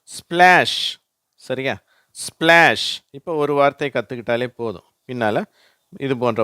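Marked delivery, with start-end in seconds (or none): 0.0-1.0 ஸ்பிளாஷ் said high and loud, spl merged; teacher modelling ஸ்பிளாஷ் for learners; model word splash. Shown as a demonstration. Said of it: "அந்த வார்த்தை ஒரு உதாரணம்". 2.1-3.0 ஸ்பிளாஷ் said high and loud, spl merged; teacher modelling ஸ்பிளாஷ் for learners; model word splash. Shown as a demonstration. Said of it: "அந்த வார்த்தை ஒரு உதாரணம்".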